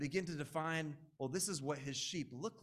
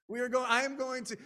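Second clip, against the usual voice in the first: louder and higher, carried away with himself; mock grandiose; 9 semitones higher, 8 dB louder, faster than usual. Preacher voicing his prideful thoughts, hammed-up grandiose. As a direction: crank the ego up. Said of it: "I've had thoughts like".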